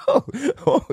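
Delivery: high laughing oh; amused disbelief. Retold or imitated. Mimics own oblivious self.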